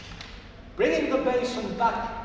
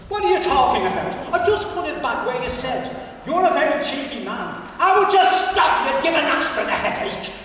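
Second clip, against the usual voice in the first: exasperated laugh; 7 semitones higher, 8 dB louder than usual. Acted.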